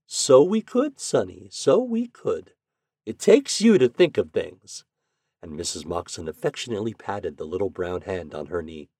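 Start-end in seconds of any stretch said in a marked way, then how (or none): 0.1-4.8 put-on higher, delighted praise for a child; drawn-out, pleased agreement; pleased grandmother. A narrator's reading. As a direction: praise your grandson with lilting approval.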